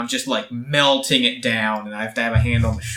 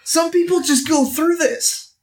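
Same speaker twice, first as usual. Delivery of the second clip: muttering to himself; 14 semitones higher, slower than usual. Acted. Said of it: "kind of muttering to myself".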